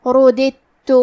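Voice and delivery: رددت with the dal merged into a doubled تا; idgham demo. Shown as a demonstration. Teacher shows the merged dal in رددت. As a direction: say رددت as rudditu, dal swallowed into a stressed tt. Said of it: "دال کو تا میں ملا کے صرف حرف تا اور تشدید".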